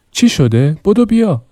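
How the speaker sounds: high, urgent plea to hurry; urgent call. Acted. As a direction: pull him along, breathless with alarm. Daughter urgently calling father. (صدای بلند و هراسان)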